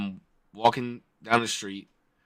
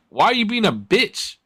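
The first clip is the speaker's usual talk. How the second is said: raised, challenging voice; confrontational; 7 semitones higher than usual. Retold or imitated. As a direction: demand he roll the window down. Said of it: "So I was like".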